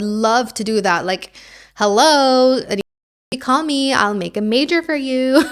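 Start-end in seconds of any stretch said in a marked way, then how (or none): 1.8-5.4 playful sales pitch. Pretend. Mock pitch to universities.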